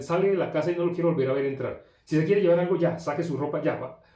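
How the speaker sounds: put-on a stern, mounting rant, cutting the boy off for good; a preacher acting a furious dad, mildly hammed; angry father disowning son. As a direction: scold like a father throwing his son out. Imagined father disowning his son.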